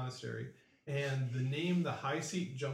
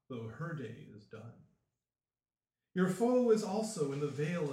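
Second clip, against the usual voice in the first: solemn chanting prophecy; mystic oracle voice; 2 semitones lower than usual. Acted. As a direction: intone it like an ancient seer.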